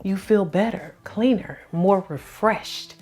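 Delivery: slow, salesy infomercial pitch. Acted. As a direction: sell it like a TV ad. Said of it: "And I sound like an infomercial".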